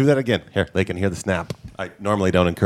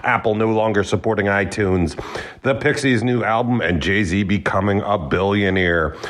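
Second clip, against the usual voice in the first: show announcer. Acted. Producer announces this week's lineup to listeners, announcer read. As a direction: announce the lineup with held final words. Reads the show's opening rundown.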